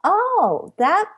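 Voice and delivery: lightly voiced, casual politeness hiding excitement; a hint of feigned composure; playing it cool. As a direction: act as if it's no big deal. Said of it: "on the outside, I'm going".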